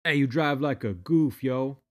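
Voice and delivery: angry driver's imitated yell. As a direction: bark it across at the car beside. Angry driver yelling across lanes.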